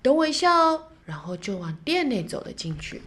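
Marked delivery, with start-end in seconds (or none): 0.0-0.8 kindly shopkeeper. Acted. Shopkeeper tells child to wait.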